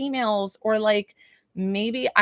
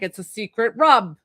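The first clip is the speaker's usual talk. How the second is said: dad voice. Retold or imitated. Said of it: "I'm doing this voice".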